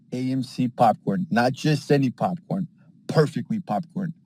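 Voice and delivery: slow, deliberate ad read; commercial announcer. Acted. Pitching an AMC ad slogan in a slow announcer voice. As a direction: sell the slogan like a trailer voice.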